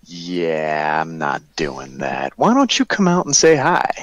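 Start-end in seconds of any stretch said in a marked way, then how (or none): 2.4-3.9 high, coaxing call; calling out coaxingly. Acted. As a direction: coax them out of hiding. Player calling to hidden voice.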